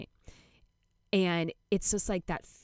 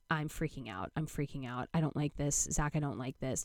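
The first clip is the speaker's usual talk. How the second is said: subdued panic; 2 semitones lower, 3 dB quieter than usual. Retold or imitated. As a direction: quietly plead as anxiety takes over, understated. Retells panicking to partner in bathroom.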